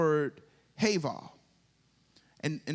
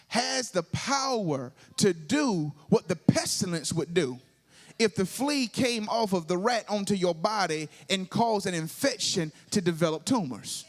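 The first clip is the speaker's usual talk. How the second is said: emphatic preaching; 2 semitones higher, 3 dB louder than usual. Real, not acted. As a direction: preach it with rising force. Preacher builds in force.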